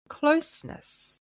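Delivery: tender hush; whispered. Real, not acted. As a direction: let the word fall out as a hush. Devotional soft emphasis on closeness.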